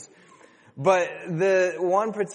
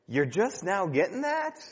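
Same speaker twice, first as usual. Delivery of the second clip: dismissive; 2 semitones higher, 3 dB quieter than usual. Pretend. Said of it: "I could have said".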